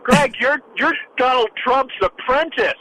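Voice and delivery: high, drawn-out mock zinger; Tim Kaine. Panelist interrupting co-host Greg as the candidate did, mocking impression. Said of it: "that's my Tim Kaine impression".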